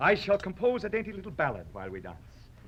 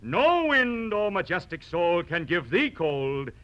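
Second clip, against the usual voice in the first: emphatic. Acted.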